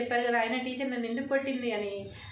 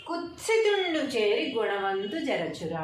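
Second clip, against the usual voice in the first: teacher recitation; slower than usual. Shown as a demonstration. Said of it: "teacher recites poem line".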